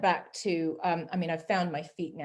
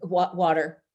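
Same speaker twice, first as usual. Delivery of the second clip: Canadian water; slower than usual. Shown as a demonstration. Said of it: "Would they say water in Canada?".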